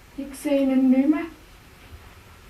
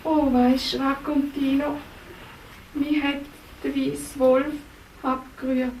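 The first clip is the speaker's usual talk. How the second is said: kindly helper Racontino; 3 semitones lower than usual. Acted. Racontino comforting the princess, lower and gentle. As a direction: talk gently to the lost princess.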